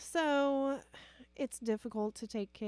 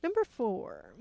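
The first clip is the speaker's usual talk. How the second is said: whispering; 4 dB louder than usual. Real, not acted. Reading list item quietly.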